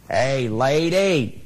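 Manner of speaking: slow, drawn-out parrot call; a parrot catcalling the lady on her way to work, slow and drawn out. Acted. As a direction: stretch it out like a cheeky parrot hailing her. Parrot calls to her again.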